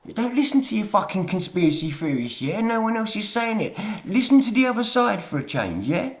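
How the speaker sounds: heated, pushy rant; telling off the doubters; getting angry. Real, not acted. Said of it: "Sorry for getting angry".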